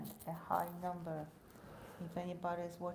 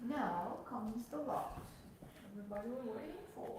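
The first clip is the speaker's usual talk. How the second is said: royal voice; 4 semitones higher than usual. Real, not acted. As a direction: announce it like a queen. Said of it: "she put on her royal voice".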